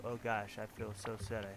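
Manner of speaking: softly choked up, holding back tears; quiet happy crying; teary. Acted. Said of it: "I don't know why I'm crying".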